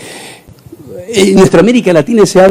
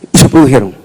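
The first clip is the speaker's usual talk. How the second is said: normal talking voice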